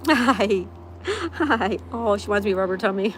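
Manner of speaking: gushing pet talk. Real, not acted. Streamer delighted by pet wanting tummy rub, loud cooing. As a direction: gush loudly over an adored pet.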